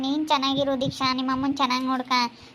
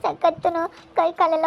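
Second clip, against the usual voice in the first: slow, tearful and halting; crying. Real, not acted. Younger woman asked about her sick mother, crying. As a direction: struggle to speak through tears. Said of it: "ಯಾಕೆ ಅಳ್ತಾ ಇದೀಯ?".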